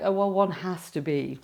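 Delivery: affected posh stage English; mock your old posh put-on accent. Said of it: "I thought you had to be posh".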